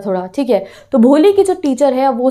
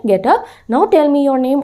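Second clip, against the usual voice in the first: a very slow, gentle invitation; friendly and loving; much slower than usual. Shown as a demonstration. Teacher gently coaxing shy Bholi to stand, loving and slow. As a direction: coax her kindly, no command in it. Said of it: "बहुत प्यार से उसको friendly manner में".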